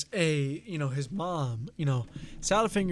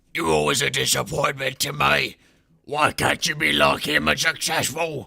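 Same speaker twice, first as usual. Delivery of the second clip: put-on loud, creaky, crusty, decrepit old crone voice; 6 dB louder than usual. Retelling how the mother character sounded, in a Salad Fingers old mom voice. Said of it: "old, decrepit, crusty mom".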